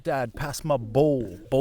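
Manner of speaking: imitated London roadman accent, drawn out. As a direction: mimic a son's slow roadman accent. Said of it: "roadman accent coming up".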